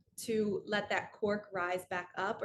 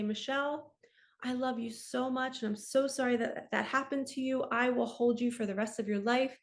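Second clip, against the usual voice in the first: tender self-comfort. Pretend. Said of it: "I'm gonna say".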